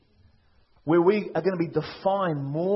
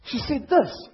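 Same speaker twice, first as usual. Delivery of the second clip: loud, higher, pushing the words out; loud insistence; 8 semitones higher, 4 dB louder, slower than usual. Shown as a demonstration. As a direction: insist on She said this. loudly and high. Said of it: "she was pretty ticked".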